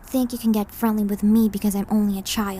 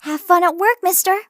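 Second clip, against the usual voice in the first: cheery send-off; 8 semitones higher, 6 dB louder than usual. Acted.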